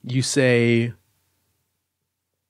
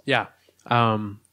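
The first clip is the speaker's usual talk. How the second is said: talking with a drink in mouth; mouth full. Real, not acted. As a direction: swallow a sip mid-word. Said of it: "sorry, I had beverage in my mouth".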